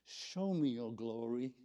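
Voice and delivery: put-on gently pleading, like a little child; a small, trusting request; childlike inflection. Shown as a demonstration. Showing how Moses asked the Lord, childlike inflection. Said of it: "that inflection in the voice".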